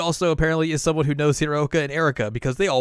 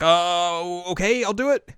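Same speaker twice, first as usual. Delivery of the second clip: higher, bright agreeing; lightly voiced eager woman; 7 semitones higher, 5 dB louder, slower than usual. She's like, high agreeable.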